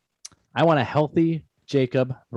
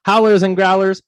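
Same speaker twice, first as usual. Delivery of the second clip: show name shout; 6 semitones higher, 8 dB louder than usual. Acted.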